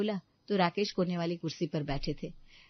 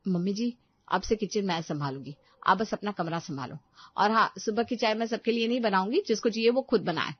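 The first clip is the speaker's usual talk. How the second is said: put-on loud, higher, sneering young wife; haughty daughter-in-law; 3 semitones higher, 4 dB louder than usual. Daughter-in-law to mother-in-law, haughty and loud. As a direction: put the old woman in her place.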